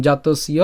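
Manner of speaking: জাতস্য said as one word, d͡ʑatosi; Sanskrit recitation. Shown as a demonstration. Teacher modelling জাতস্য for students. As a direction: sound out জাতস্য carefully as one unit. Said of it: "এটা একসাথে উচ্চারণ করব".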